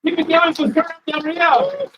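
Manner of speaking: loud, high call to keep the applause going; hyping the room for Fern Del Rio, loud and high; rousing call. Real, not acted. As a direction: pump up the crowd for the winner. Host rousing applause for winner.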